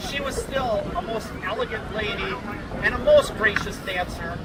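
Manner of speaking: ordinary talk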